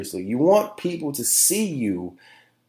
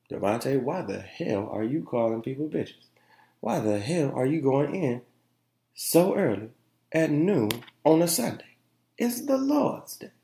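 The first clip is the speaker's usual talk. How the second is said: mock scolding critic; 3 semitones higher, 6 dB quieter than usual. Scolding himself as imagined critic.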